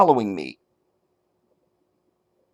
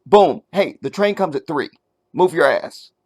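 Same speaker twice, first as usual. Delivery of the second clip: blunt statement. Retold or imitated. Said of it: "you're not saying".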